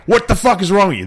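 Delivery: imitated angry yell, high and loud; screaming neighbor. Neighbor screaming at him about his driving, mock yell. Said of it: "starts screaming".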